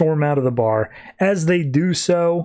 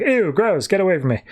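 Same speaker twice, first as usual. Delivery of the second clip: high-pitched "ew" of disgust; put-on squeamish recoil, easing off; mock freak-out; 4 semitones higher than usual. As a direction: lightly act out being grossed out. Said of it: "causes them to freak out".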